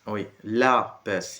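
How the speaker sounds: la baisse, slow, the A after the L stressed. Shown as a demonstration. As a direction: lean on the la in la baisse. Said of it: "il y a un A après le L".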